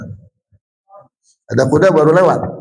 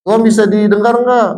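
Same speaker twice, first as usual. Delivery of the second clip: lightly voiced sweet teacher, higher; kindergarten teacher voice; 5 semitones higher than usual. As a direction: talk sweetly to small children. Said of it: "seorang guru mengatakan gini".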